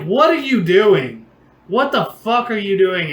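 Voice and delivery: mock scolding of a drunk friend; exasperated scolding. Host catches drunk friend on the fence, exasperated scolding.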